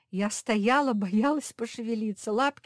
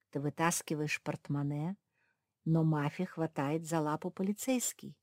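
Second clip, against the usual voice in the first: plain reading voice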